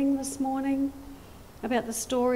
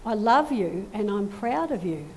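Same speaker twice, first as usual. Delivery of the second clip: tender blessing. Acted. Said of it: "God says to you both".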